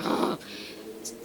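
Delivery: harsh voiceless huff; exasperated breath. Retold or imitated. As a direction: mimic an angry clerk's huff. Imitating an angry till clerk.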